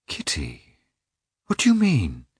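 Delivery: pained, chiding husband; reproachful. A narrator's reading. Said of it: "he said reproachfully".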